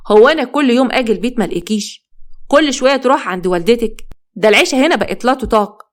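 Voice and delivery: mildly angry, voice lifted a little; irritated husband. Acted. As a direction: scold with a touch of exasperation. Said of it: "أحمد وقف وبعصبية". (بعصبية خفيفة)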